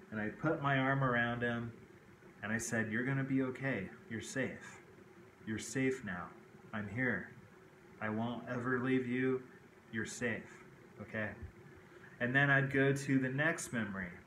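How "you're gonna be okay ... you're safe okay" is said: put-on soft, gentle comfort to a frightened child; soothing reassurance. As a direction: hush him like a scared little boy. Comforting his inner child in memory.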